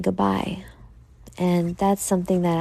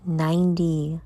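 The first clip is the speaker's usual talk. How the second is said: whispering; 3 dB quieter than usual. Acted. Whispered show intro.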